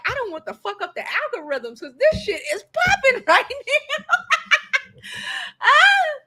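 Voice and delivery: giggling at own luck; laughing. Real, not acted. Explaining why she stayed live, laughing. Laughing about going viral.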